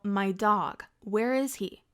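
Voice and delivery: retold yell, fairly loud; yelled demand. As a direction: shout it at the neighbor, worried. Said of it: "I yell".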